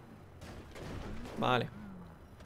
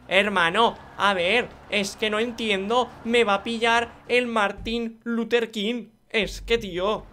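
slow, loud, emphatic complaint; exasperated protest; 5 semitones higher, 5 dB louder, slower than usual. Real, not acted. Gamer fearing a rival will catch him, exasperated protest. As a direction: spell out the frustration loudly, dragging the words.

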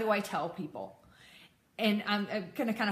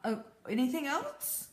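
casual, slightly raised retold reply; blasé friend; 4 semitones higher than usual. Best friend answering a confession, blasé. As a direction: shrug off the big confession, acted lightly. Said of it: "is going to be blasé about it".

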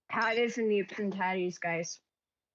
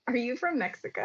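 higher, laughing mock question; amused, pitched-up callback; laughing tease; 5 semitones higher than usual. Teasing with the story's line, laughing.

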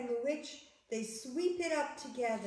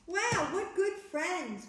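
high, slow storytime marvelling; delighted wonder; 6 semitones higher, 4 dB louder than usual. A narrator's reading. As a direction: exclaim it with drawn-out wonder.

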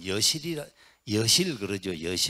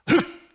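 short sharp Zen shout, loud; 8 dB louder, much slower than usual. Shown as a demonstration. Monk demonstrating a Zen shout to the assembly, sharp shout. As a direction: bark out a single sharp cry. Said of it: "이렇게, 응?".

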